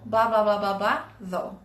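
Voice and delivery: falling though at the end. Shown as a demonstration. Teacher showing where though goes, falling at the end. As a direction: drop your voice on the final though. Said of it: "Lá no final".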